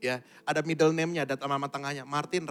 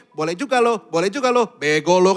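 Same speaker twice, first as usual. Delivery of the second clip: loud, high mock game taunt; shouted mock jeer; old video-game taunt; 3 semitones higher, 14 dB louder than usual. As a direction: imitate a game's taunting voice, loudly. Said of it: "kayak kita main game".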